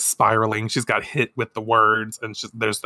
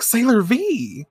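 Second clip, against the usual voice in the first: high slow cry; 11 semitones higher, slower than usual. Acted. Woman cries out name.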